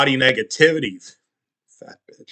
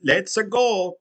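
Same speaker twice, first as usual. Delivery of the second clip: put-on Italian accent; 6 semitones higher, slower than usual. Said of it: "typical Italian stereotype".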